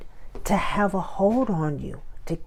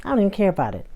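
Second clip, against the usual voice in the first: dismissive; 3 semitones higher, much faster than usual. Pretend. Acted brushing off the invitation.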